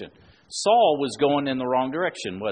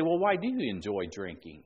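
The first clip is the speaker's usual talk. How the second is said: low, unaccusing question; non-snotty question; 4 semitones lower than usual. Shown as a demonstration. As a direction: ask it simply, without any snottiness. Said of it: "don't say it in a snotty manner, but just say".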